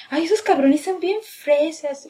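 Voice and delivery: slow mock chilango scorn. Chilangos mocking each other, slow mock sneer. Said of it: "uno sigue".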